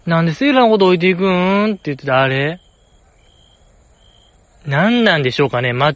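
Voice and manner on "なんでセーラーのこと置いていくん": mimicking a pushy Osaka-dialect complaint; quick imitation of a plaintive question; 早川さん. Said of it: "あの早川さんのあの感じ". (圧強めの大阪弁の物まね)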